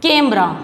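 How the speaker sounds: कैमरा with a firm, stressed first vowel; forceful vowel. Shown as a demonstration. Teacher modelling the sign, कैमरा with force on ai. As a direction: lean on the ai in कैमरा. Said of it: "जोर लगा के बोलनी पड़ती है".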